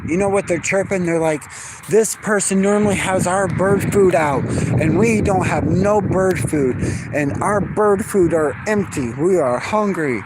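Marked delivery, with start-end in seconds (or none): 1.9-10.2 voicing the birds.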